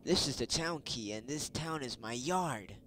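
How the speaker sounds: lightly voiced territorial dog; a hint of a big-dog character; game dog's voice. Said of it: "That's how he sounds".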